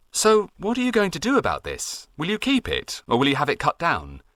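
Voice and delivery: Jack. A narrator's reading. Jack asks farmer.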